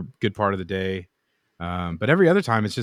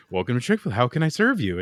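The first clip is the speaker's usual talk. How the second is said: chipper server; 3 semitones higher, faster than usual. Retold or imitated. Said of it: "the most chipper".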